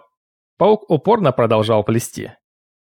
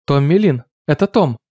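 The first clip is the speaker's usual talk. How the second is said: grating voice; 3 semitones higher than usual. Acted. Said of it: "скрижетнула мисс Карастель".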